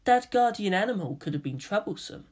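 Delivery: calm reply. Acted. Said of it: "was the calm reply".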